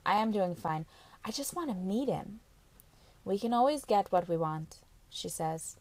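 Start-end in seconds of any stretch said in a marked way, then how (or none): 3.2-4.8 flat tone. Acted. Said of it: "From the flatness of her tone alone".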